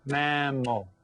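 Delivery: "Mammal" counted out in two beats; syllable by syllable. Shown as a demonstration. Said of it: "Count that out".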